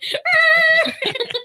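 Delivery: high, loud tyre squeal; imitated car screech. Telling how the driver suddenly pulled over, imitated screech.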